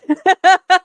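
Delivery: loud, high burst of laughter; real laughing fit, high and loud. Real, not acted. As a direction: laugh out loud at your own question. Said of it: "I'm sorry to laugh".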